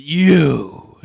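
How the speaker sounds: mock yell. Imitating his outburst.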